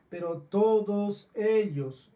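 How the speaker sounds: preacher pounding "todos" from the pulpit; stress on todos. Real, not acted. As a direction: lean hard on "todos", slow and loud. Preacher stresses the whole crowd.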